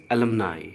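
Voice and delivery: alumni said slowly as "uh-LUM-nye"; careful pronunciation. Shown as a demonstration. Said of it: "pronunciation ध्यान में रखिएगा". ("alumni" को धीरे-धीरे, "अलमनाई" बोलें)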